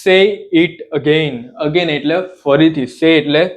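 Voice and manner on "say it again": slow, word by word; slowly, so students can repeat; slow teaching read. Shown as a demonstration. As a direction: say it slowly for learners. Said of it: "આપણે કહીએ ફરીથી કે".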